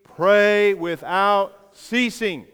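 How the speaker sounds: slow, drawn-out congregational reading; unison recitation. Shown as a demonstration. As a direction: lead them through each word slowly. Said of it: "say it with me".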